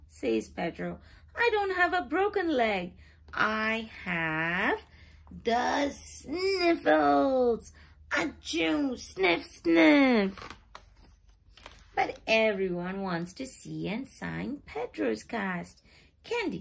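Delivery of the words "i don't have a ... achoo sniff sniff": high, sniffly protesting pony; a higher voiced little pony with the sniffles; sick pony voice. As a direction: complain with a stuffy cold.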